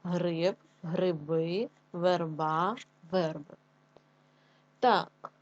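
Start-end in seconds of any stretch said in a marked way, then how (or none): 0.0-3.5 гриби and верба end-stressed, верби stressed on е; stressed word list. Shown as a demonstration. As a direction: dictate Гриб, гриби, верба, верби word by word, leaning on each stressed vowel. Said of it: "наші слова з наголосом".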